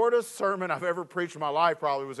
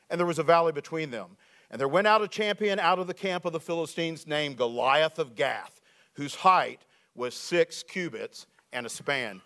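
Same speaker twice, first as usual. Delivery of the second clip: lower, measured Bible reading; scripture reading; 4 semitones lower than usual. Acted. Reads scripture.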